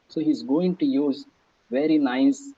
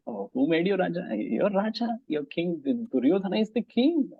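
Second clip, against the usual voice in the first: higher-pitched mocking question, amused; sarcastic; 4 semitones higher than usual. Shown as a demonstration. Teacher demonstrating a taunt at a self-declared king, sarcastic. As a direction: needle him with mock disbelief at his title. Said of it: "sarcastic means indirectly saying something".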